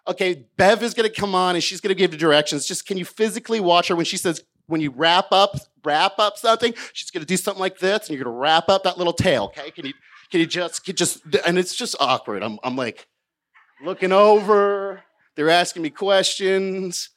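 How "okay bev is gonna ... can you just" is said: bossy producer. Retold or imitated. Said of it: "He's like".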